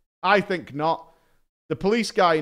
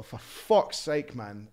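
muttered complaint; 4 semitones lower, 5 dB quieter, slower than usual. Retold or imitated. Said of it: "I look at my flatmate and I go".

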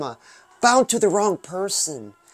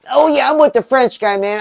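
louder, higher excited agreement; hyped up; 4 semitones higher, 5 dB louder than usual. Real, not acted. Host cheering along with the song, hyped. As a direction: pump it up.

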